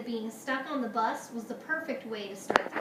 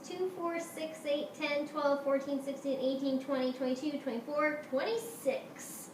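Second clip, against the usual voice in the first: higher, even chant-like count; 3 semitones higher than usual. Acted. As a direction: reel off numbers, stretching the last. Class counts off by twos.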